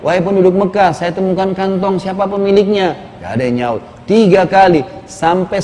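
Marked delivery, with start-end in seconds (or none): 0.0-3.0 retold calling out. Young man calling to the people of Mecca, mild raised call. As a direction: mildly call out across the square. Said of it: "Dua kali dia teriak".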